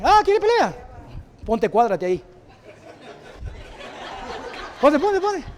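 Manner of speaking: high, loud hammed-up bravado with a laugh; cocky taunt. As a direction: swagger and taunt the opponent playfully. Acting out a cocky fight taunt. (bravuconería burlona, aguda y fuerte)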